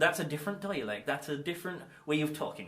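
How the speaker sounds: put-on West Country dialect; mock West Country accent. Shown as a demonstration. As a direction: talk like someone from Gloucestershire, West Country style. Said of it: "the old West Country accent".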